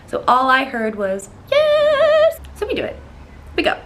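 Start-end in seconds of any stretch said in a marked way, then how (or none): 1.5-2.4 much higher, louder squeal; thrilled yes. Retold or imitated. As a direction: squeal it with joy. Excited acceptance.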